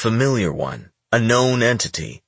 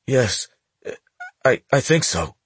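put-on high, nervous young boy; a scared teen stammering to a gangster; frightened boy voice; 5 semitones higher than usual. Boy stutters.

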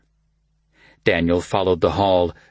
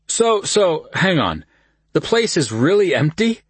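put-on drunk slurring; 10 semitones higher, 3 dB louder than usual. A narrator's reading. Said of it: "slurring their words".

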